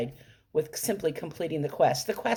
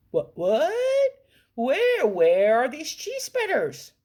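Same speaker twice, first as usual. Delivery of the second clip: louder, higher rush of excitement; excited; 7 semitones higher, 4 dB louder than usual. Retold or imitated. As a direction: blurt it out, thrilled and urgent. Told of a bag of spreaders.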